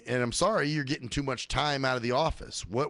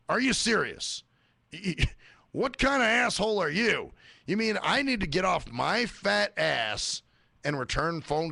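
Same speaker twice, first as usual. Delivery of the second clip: mock outraged employee; 4 semitones higher than usual. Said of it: "they act like you're fucking".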